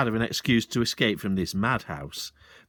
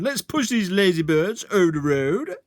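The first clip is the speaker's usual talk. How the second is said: higher, louder rallying call; cried out; 8 semitones higher, 5 dB louder than usual. Acted. Sergeant rallying father and son, a loud cry. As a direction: rouse the lads to action. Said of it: "he cried".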